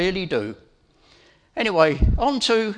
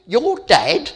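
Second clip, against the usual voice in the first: surprised question; 6 semitones higher, 9 dB louder than usual. Retold or imitated. Child surprised at grandad's name.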